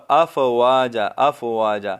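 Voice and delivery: افواجا with a still ف and a long final ا; correct pronunciation. Shown as a demonstration. Teacher models افواجا for students. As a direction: stretch افواجا, keeping the ف silent of vowel. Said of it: "فا کو ہم سکون کے ساتھ ادا کریں".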